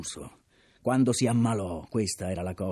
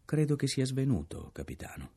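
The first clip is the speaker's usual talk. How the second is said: polite and calm; 5 semitones higher than usual. Acted. Ransom calmly tells the captain the mate fainted. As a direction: tell the captain gently and without fuss. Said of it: "pronunciò garbatamente le parole".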